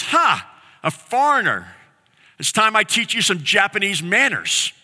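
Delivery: lightly voiced belligerent drunk picking a fight; angry drunk man. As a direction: act out a mild mock threat. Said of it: "very angry man".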